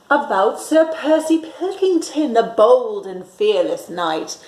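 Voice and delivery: put-on lively read-aloud for children; storytime narration. A narrator's reading. Teacher reading a picture book to children, lively. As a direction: read it like a bedtime story for little ones.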